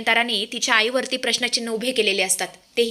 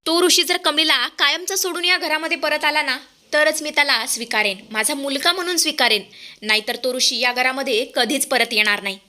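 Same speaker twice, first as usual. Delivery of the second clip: angry shouting. Acted. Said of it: "ती जोरातच ओरडते".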